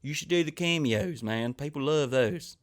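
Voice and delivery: lightly imitated friend urging him on; mildly put-on pleading from a pal; Ginger Billy. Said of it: "Ginger Billy's like".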